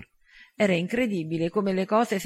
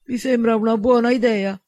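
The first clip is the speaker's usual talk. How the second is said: confident; 4 semitones higher, 6 dB louder than usual. A narrator's reading. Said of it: "disse Trevor fiducioso".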